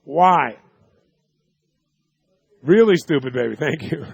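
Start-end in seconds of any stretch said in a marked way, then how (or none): none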